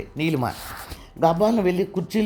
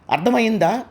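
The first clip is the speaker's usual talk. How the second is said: louder, higher threatening shout; 5 semitones higher, 3 dB louder than usual. Acted. Ajay shouting his threat at Neelima. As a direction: bark the question at her. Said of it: "అని గట్టిగా అరిచాడు అజయ్".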